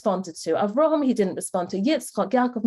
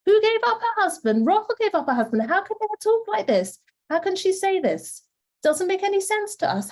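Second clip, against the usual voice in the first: incredulous; 8 semitones higher than usual. Real, not acted. Teacher marvels at Leah's words.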